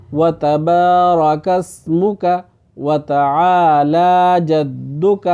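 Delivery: slow, careful chanted recitation; full correct recitation. Shown as a demonstration. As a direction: recite the whole prayer slowly and cleanly. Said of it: "تو اب سارا سن لیں".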